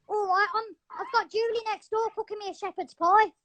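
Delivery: lightly put-on English accent; the speaker's English accent. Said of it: "I'm good at an English accent".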